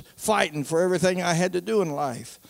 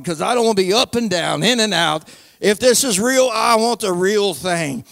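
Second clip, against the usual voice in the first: retold desperate prayer; 3 dB louder than usual. Sinner at the altar begging God for mercy, retold pleading. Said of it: "you hollered".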